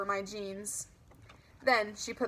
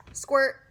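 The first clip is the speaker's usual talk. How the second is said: mock squirt sound; 4 semitones higher, 8 dB louder than usual. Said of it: "pretended to squirt myself with seltzer".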